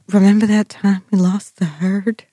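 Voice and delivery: lightly imitated shaky voice; hint of a quavering character. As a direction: do her shaky voice, understated. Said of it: "In that shaky ass voice".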